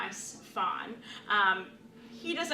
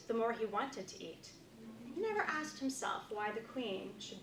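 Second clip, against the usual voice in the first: story narration. A narrator's reading. Reads story aloud.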